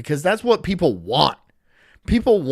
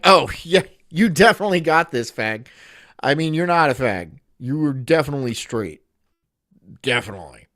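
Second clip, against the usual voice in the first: sarcastic. Pretend. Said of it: "super sarcastic self-help guru".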